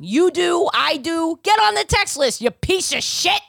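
mock scolding. Mock scolding listeners about text list.

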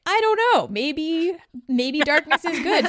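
high, loud, slow wheedling voice; workers' rights advocate, high and hammed-up; mock pleading. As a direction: ham up a tired worker begging for darkness. Workers' advocates mocked in quote.

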